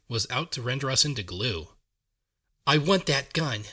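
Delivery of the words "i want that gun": loud eager shout. Acted. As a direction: shout it over gunfire. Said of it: "I shouted".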